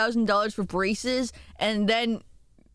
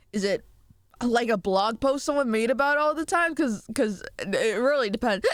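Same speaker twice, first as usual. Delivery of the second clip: talking between burps; words interrupted by burps; burping after fizzy drink. Real, not acted. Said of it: "I'm so sorry I'm burping so much".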